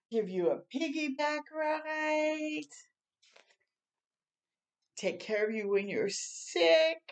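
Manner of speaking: gentle storybook reading voice; reading to children. Acted. Reading picture book aloud.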